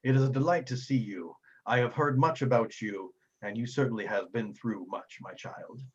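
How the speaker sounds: lightly voiced kindly Father; formal, measured welcome from a priest; gracious old-world cleric. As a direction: greet them with gentle ceremony. Game master voices Father Geno.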